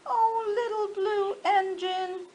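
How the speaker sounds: pleading dolls. Acted. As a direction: plead like a little doll. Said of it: "cried the dolls and toys".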